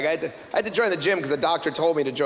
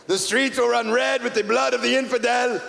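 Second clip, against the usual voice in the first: speech; 4 semitones higher than usual. Acted. Leader of Iran giving speech.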